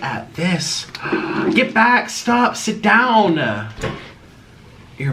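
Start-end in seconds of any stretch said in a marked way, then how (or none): 1.5-3.7 commanding dog. Real, not acted. To dog Jasper ruining the show, raised command. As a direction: order the dog back, drawn out.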